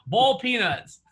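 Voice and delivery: "Boiled" said like "bold"; Southern pronunciation. Shown as a demonstration. Repeating Southern boiled peanuts for laughs. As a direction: say "Boiled" Southern style, one syllable. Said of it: "You have to say boiled".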